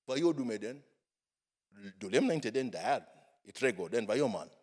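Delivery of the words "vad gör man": ordinary talk, nothing marked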